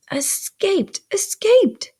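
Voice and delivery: high, snappish retort. A narrator's reading. Mrs. Joe explains to the boy, snappish. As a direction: answer with rising irritation on the repeat. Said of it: "said snappishly".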